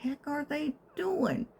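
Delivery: hushed, breathless whisper; whispered puzzlement. Retold or imitated. Woken by banging upstairs, whispering in puzzlement. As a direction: whisper it, baffled. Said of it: "and I'm like".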